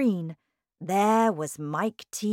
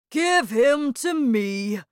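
slow, loud, raised command; stern father; 7 semitones higher, 7 dB louder, slower than usual. A narrator's reading. Father demanding his tiny son, loud and stern. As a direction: order it firmly and slowly.

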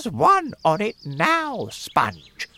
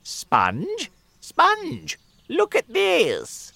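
high, loud calling out; shrill-pitched aunt calling across the garden; excited shout; 6 dB louder, much slower than usual. Acted. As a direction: yell for her sister to look. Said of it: "Aunt Spiker shouted".

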